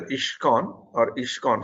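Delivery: "iskcon" said twice with a sh, "ishkon"; mispronounced ISKCON. Shown as a demonstration. Reviewer repeating presenter's slip, "iskcon" mispronounced as "ishkon". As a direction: imitate the slip, sh in place of s in "iskcon". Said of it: "you're pronouncing as".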